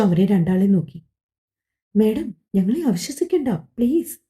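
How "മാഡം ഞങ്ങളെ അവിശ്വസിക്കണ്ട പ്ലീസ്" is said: pleading. Acted. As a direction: coax her to trust them. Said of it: "വൈശാഖിന്റെ അഭിനയം ഒന്നാം തരമാണെന്ന്". (ഹേമയോട് വിശ്വാസം നേടാൻ അപേക്ഷിക്കുന്നു, മൃദുവായി)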